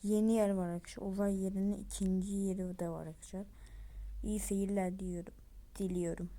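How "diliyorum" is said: whisper. Real, not acted. Aside after signing off.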